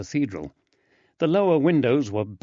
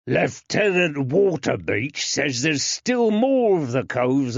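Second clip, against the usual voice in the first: gruff jailer; 5 semitones higher, 3 dB louder than usual. Acted. Jailer refuses entry.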